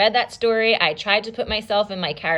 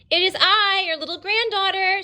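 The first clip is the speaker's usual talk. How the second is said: put-on much higher, small girl voice; little girl; 12 semitones higher than usual. Red Riding Hood announces herself in a high little-girl voice. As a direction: sound like a little girl at the door. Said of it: "said Little Red Riding Hood".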